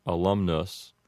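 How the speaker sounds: alumnus with short uh vowels; alumnus, English style; Americanized alumnus. Shown as a demonstration. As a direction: say alumnus as uh-LUM-nus. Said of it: "going to be pronounced".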